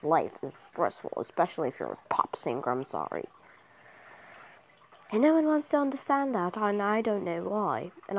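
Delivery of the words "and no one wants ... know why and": playful attempt at a British accent. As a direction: slip into an amateur British accent. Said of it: "I just like doing a British accent".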